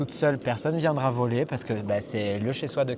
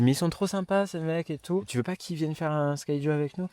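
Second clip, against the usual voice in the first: imitating excited friend; 5 semitones higher than usual. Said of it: "elle m'a dit".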